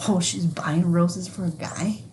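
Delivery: hushed, judging gossip; sneering bystander sizing someone up; mock judgmental whisper. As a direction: whisper it like a nosy judge. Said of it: "you would be put in that position".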